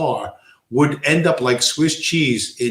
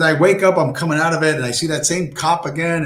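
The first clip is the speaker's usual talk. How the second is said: retold story; 4 semitones higher than usual. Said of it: "he said".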